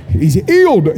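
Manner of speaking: quick imitation of a British accent. Preacher imitating the British healing revivalist, British accent. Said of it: "he had a British accent".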